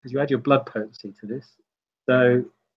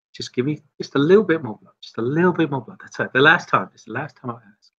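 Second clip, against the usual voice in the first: pleading; 2 semitones higher than usual. Acted. Game master voices pleading blood-drinker.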